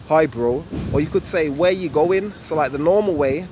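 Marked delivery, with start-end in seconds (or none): 0.1-0.6 roadman "Hi, bro" with "bro" quicker; negative-toned roadman "Hi, bro"; roadman style. Shown as a demonstration. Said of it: "roadman speaks, it's like this". 1.5-2.3 roadman "Where you going?" with a quick "going"; roadman style. Shown as a demonstration. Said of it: "a so-called roadman speaks".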